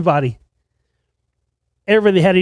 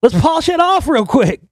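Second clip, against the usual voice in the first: imitating a guitarist; 10 semitones higher than usual. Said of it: "He's like".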